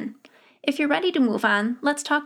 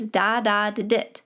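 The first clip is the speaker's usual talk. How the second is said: "da, da, da, dit" run together as one word, "DAH-DAH-di-dit"; stress on the dahs; slower than usual. Shown as a demonstration. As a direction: lean on the first two "da", light ending to "dit". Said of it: "should sound like a single word".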